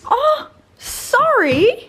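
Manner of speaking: high, slow fake sob; mock crying apology. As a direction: whine a fake tearful sorry.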